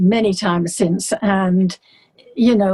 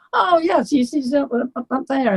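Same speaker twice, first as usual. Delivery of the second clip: higher, casual pointing upstairs; breezy concierge; 5 semitones higher than usual. Retold or imitated. Concierge sending her upstairs, high and breezy. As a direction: wave her up cheerfully. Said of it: "He said".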